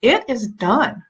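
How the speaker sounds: IT IS DONE drawn out slowly, word by word; emphatic declaration. Retold or imitated. Mom repeating her motto that drives son crazy, slow declaration. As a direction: declare it as settled fact, slowly. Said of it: "'cause I say it".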